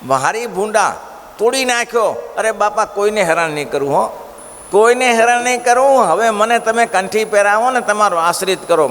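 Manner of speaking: a beaten man swearing he will change; high pleading. Acted. Man begs, promises reform. (ઊંચા અવાજે કરગરીને વચન આપતો)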